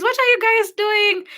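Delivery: a high, polite question from a stranger; mock lady voice. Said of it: "she, she says".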